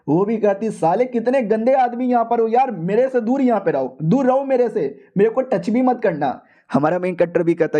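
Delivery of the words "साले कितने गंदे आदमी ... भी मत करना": higher disgusted woman's voice; mock disgusted wife. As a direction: push him away, higher and disgusted. Wife fends off husband.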